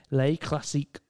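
put-on playful French accent; mock French accent. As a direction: roll Les Classiques like a fake Frenchman. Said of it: "That was a French accent".

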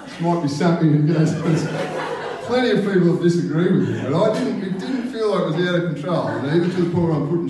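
amused, half-laughing defence. Real, not acted. To listeners who disagreed, laughing defence.

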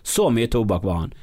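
usual speaking voice

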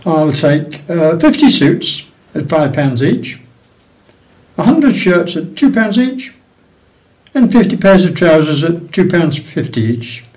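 put-on posh English accent, measured pace. Paddy ordering suits from shop owner, in posh English voice. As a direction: play an Irishman attempting posh English. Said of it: "Paddy says in his posh voice".

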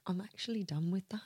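soft whispered realization; whispering. Retold or imitated. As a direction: breathe it out as a whisper. Peaceful moment, inner thought.

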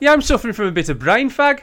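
put-on broad, high Black Country accent; hammed-up Black Country brogue. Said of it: "Oh, the black country accent".

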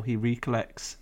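"recollects" misread with a long REE at the start; misread word. Real, not acted. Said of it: "You also slowed down to do it".

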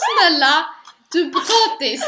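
high, loud mock scolding; mock exasperated call. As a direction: throw it at him like a playful telling-off. Retold mock scolding, calling out. (hög, högljudd låtsasskäll)

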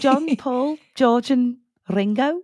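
high, slow, hammed-up Liverpudlian roll call; Scouse band impression. Host names the members of a band to keep the joke going, in an overdone Liverpudlian accent. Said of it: "Says the fifth Beatle".

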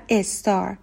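استار said "es-tar", extra vowel first; Persian learners' mispronunciation. Retold or imitated. Teacher repeats the common Iranian mistake, an added leading e. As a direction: open استار on an e before the s. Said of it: "قبل از اس یک ای هم".

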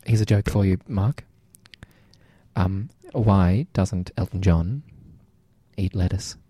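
lightly voiced old-lady caller. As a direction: tell the joke as a chatty old caller.

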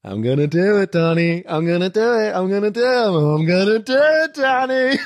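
gespielter amerikanischer Akzent, immer lauter; American accent. Retold or imitated. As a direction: amerikanischer Akzent, triumphierend steigend. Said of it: "Plötzlich ist so ein amerikanischer Akzent". (amerikanischer Akzent, siegessicher)

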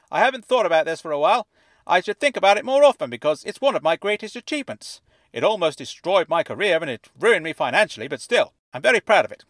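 high, fuzzy voice like it's underwater; fuzzy fish tank voice. A narrator's reading. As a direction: speak as if from inside a fish tank. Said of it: "as though he were speaking from the inside of a fish tank".

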